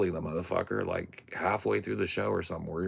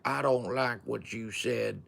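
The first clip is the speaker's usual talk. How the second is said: grandma voice; 6 semitones higher than usual. Retold or imitated. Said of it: "his grandma was like".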